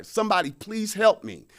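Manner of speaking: high-pitched call to passers-by; re-enacted cry for help, not full volume; hollering for help. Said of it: "I'm hollering to people passing by".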